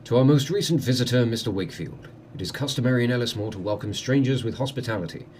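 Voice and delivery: measured, courteous letter read-out; formal letter reading. Acted. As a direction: read out a lord's formal invitation. Reads a letter aloud.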